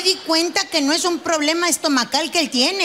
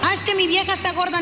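mock excuse; 4 semitones higher, faster than usual. Cheating man's excuse.

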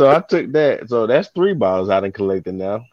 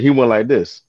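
usual speaking voice

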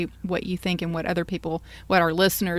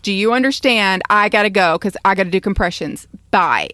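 urgent mock call; 7 dB louder than usual. Acting out proper 911 call.

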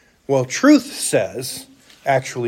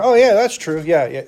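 careless agreement; 2 semitones higher than usual. Retold or imitated. Preacher mimics people agreeing casually, offhand. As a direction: toss it off lightly. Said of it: "the truth we just kind of throw around".

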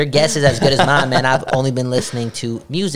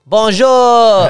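flirty greeting; 8 semitones higher, 6 dB louder than usual. Pretend. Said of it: "how do you say that?".

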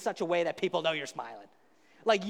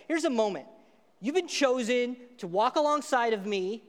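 rousing call; 2 semitones higher than usual. Shown as a demonstration. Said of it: "I'm gonna say it like this".

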